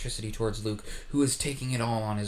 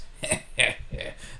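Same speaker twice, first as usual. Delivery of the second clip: breathy villain chuckle; a quiet, airless evil snicker; soft unvoiced evil laugh; 4 semitones lower, 4 dB quieter than usual. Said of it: "The Emperor laughs".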